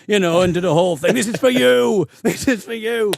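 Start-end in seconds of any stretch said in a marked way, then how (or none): 1.1-3.1 high-pitched pretend victory call; hammed-up gloating from the stage; mock triumphant dedication. Award winner dedicating the win to the teacher, mock triumph.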